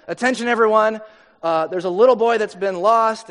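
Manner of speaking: PA announcer. Retold or imitated. Announcer reports a lost boy, mock PA delivery. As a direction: lightly imitate a beach announcer. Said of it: "the P A and says".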